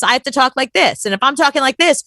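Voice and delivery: building toward a shout; one step up in intensity. Shown as a demonstration. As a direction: top the other talker a notch. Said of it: "it goes for volume".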